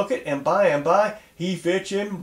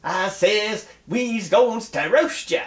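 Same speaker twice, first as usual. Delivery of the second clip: mock shout; 5 semitones higher than usual. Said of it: "he shout".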